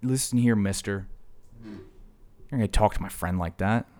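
a hint of a tough guy warning; mock tough guy. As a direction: puff up and warn him off. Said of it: "I'm like".

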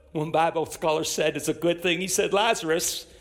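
normal talking voice

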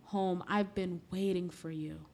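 gentle, unhurried welcome, softening toward the end; tender welcome. Acted. God receiving someone who comes to him, tender and gentle. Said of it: "When you come to God, he says".

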